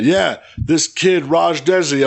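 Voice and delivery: hammy announcer hype; commentator voice. Retold or imitated. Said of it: "Don Callis was referring".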